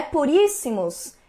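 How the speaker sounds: "puríssimos" slowed, leaning on the stressed I; sharp I vowel. Shown as a demonstration. Teacher giving a second assonance example, slow sharp I. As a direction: stretch out "puríssimos" to show its sharp I. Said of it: "este I bem agudo ainda".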